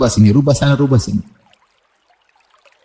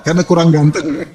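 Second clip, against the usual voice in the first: teasing laugh. Real, not acted. Teasing punchline, breaking into laughter.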